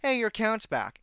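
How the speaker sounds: high bright mock chirp; mock cheerful email. Imitating the cheery email that says his account is back, mock chirp. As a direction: sarcastically chirp the email's line. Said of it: "basically being told".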